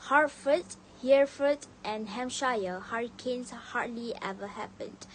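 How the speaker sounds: crisp H on "Hertford, Hereford, and Hampshire"; received pronunciation with every H in "Hertford" and "hurricanes" sounded; clear RP. Shown as a demonstration. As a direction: say "hurricanes hardly ever happened" smoothly, sounding every H. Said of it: "pronounce the line clearly and smoothly".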